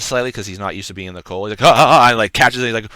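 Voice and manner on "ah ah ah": startled stammer. Acted. Guard fumbling his sword.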